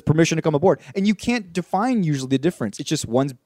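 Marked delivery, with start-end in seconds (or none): 0.0-0.8 plain, flat Momoa line; Jason Momoa impression. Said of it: "when just Jason Momoa says".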